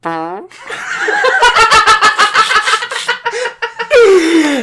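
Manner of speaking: high squeaky fake fart noise; making fart noises. Shown as a demonstration. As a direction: blow a long fake fart. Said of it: "I can make a fake fart noise".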